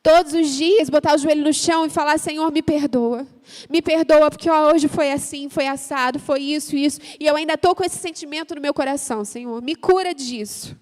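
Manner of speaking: oração alta e suplicante; oração fervorosa. Acted. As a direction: suplique a Deus em voz alta. Ora em voz alta. (oração de confissão, alta e suplicante)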